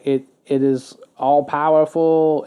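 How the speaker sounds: slow, lightly imitated English accent; King Charles. Quoting the king on all-powerful AI, slow English accent. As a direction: draw it out with a touch of royal English accent. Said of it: "I don't know why I'm giving an accent".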